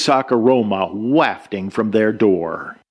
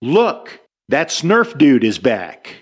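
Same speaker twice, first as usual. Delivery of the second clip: yelling. Retold or imitated. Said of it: "a camper yelled".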